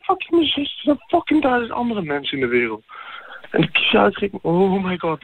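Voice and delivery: can't believe what he's hearing; outraged. Real, not acted. Friend slept with his sister.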